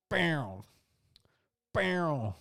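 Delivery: high, falling imitated cry; mock cry. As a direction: start high and slide down. Imitates cries at the show.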